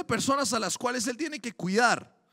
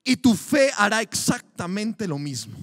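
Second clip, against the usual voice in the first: louder, driving sermon delivery; fervent preaching; 4 dB louder than usual. Acted. Preacher urging the congregation to cry out in faith, fervent. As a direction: preach it to the back pews.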